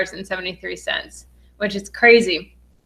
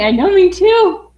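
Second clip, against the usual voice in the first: high, loud, thrilled agreement; excited agreement; 9 semitones higher, 6 dB louder than usual. Real, not acted. Host agreeing with viewer who can't believe it's happening, excited. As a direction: rise high and loud with shared disbelief.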